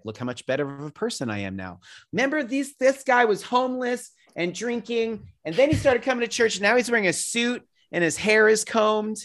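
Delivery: high, bright mock church voice showing off a convert; mock preacher. Mocking church folks bragging about a convert, high and showy.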